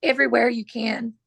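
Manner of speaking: hoarse, clearing her throat. Real, not acted. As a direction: push through a scratchy, hoarse throat. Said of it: "I am just losing my voice".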